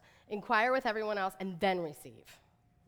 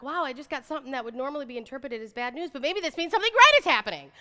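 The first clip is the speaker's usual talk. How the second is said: excited quote; 3 semitones higher, 8 dB louder, faster than usual. Retold or imitated. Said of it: "be like".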